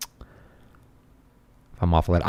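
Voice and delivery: slow breathy whisper. Shown as a demonstration. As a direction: whisper it slowly.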